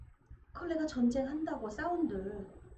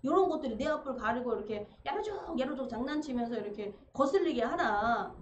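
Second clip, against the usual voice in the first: annoyed Heracles. Retold or imitated. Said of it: "막 열받아 죽겠네".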